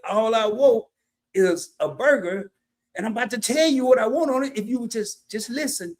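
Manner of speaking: pressed, spelling out each word to the drive-thru guy; talking down a drive-thru worker, fed up; irritated insistence. Retold or imitated. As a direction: lay down the law, barely holding back. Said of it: "I had to kinda calm down".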